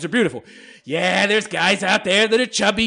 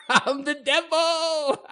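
slow, higher, laughing devil voice; mock devil; 8 semitones higher, much slower than usual. Vlogger proudly calling himself the devil, mock devilish. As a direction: savor it like a gleeful devil. Gleefully owning hateful comment.

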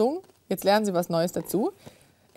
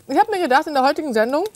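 mouth full; 3 semitones higher, faster than usual. Real, not acted. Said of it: "mit vollem Mund spricht man nicht".

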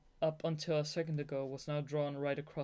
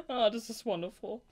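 high, louder delighted sigh of joy; gushing delight; 7 semitones higher, 6 dB louder than usual. Real, not acted. Reader swooning over the novel, gushing delight.

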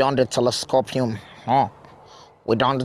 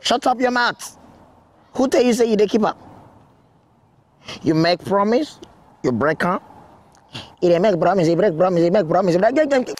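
angry scolding; 4 semitones higher than usual. Acted. Kidnapper berating caller.

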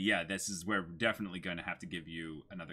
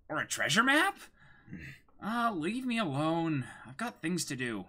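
higher, brighter cartoon voice, light and quick; dubbed anime girl; 12 semitones higher than usual. Reading anime lines aloud: higher dubbed cartoon voice. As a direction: play the sly thief teasing the boy. Voices Luffy and Nami dub.

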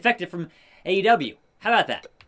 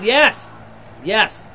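mock announcer yell; 3 semitones higher, 5 dB louder than usual. Announcing the tap out.

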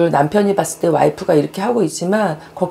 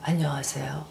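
faint, breathy whispered witch voice; evil queen; 13 dB quieter than usual. Retold or imitated. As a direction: whisper it like a creepy drama villain. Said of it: "이러는 것 같아요". (속삭이는 마녀 목소리)

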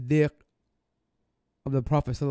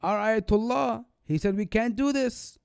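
a lightly raised, mock stern objection; imagined protest; 6 semitones higher than usual. Voicing the scolding the judge never gave, mildly stern. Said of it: "He didn't say".

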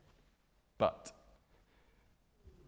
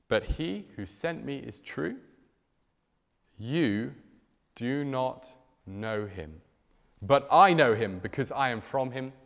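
scripture reading. Acted. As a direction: read the verse out with weight to the hall. Reads verse twenty-eight aloud.

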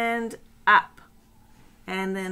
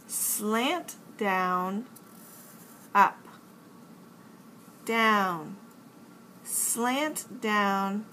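slow exaggerated speech modeling; slower than usual. Shown as a demonstration. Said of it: "Let's learn how to make the uppercase N".

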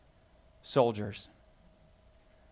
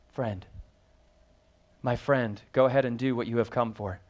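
soft tender; 3 semitones lower than usual. Shown as a demonstration. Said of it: "what does he call him?".

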